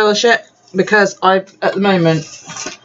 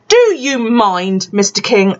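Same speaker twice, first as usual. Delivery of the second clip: slow, higher mock outrage; mock indignant; 4 semitones higher, slower than usual. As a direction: playfully scold him, drawing it out. Mock telling off husband.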